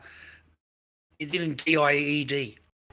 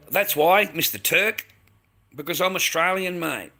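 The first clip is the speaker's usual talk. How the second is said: louder, higher, heated retort; real indignation; 3 semitones higher, 6 dB louder than usual. Real, not acted. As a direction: throw it back at the heckler, raised and indignant.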